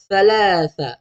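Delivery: "Thalatha" with soft th sounds; soft correct pronunciation. Shown as a demonstration. Teacher giving parents the correct soft sound. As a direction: say "Thalatha" gently with the tongue out. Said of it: "lembut sikit sebutan ni".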